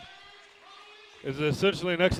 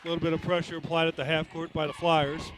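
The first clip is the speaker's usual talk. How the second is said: brisk live game call; play-by-play. Real, not acted. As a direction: call the action as it happens.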